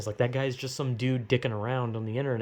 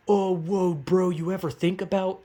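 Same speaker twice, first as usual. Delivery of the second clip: stoner whoa moment; 5 semitones higher, 4 dB louder than usual. Retold or imitated. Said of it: "type moment".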